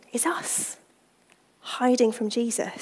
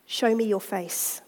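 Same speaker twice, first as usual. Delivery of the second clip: gentle refrain. Acted. The Lord gently asking the busy believer. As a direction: say it patiently, lovingly.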